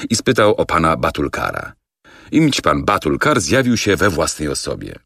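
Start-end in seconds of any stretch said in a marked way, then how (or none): none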